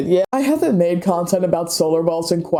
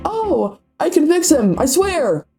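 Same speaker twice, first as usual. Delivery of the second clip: much higher, swooning mock girl voice; mocking lovestruck girl; 10 semitones higher, slower than usual. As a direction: gush it like a smitten schoolgirl.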